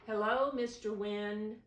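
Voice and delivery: high, loud call to the wind; a child calling out to the wind. Acted. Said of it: "called Peter".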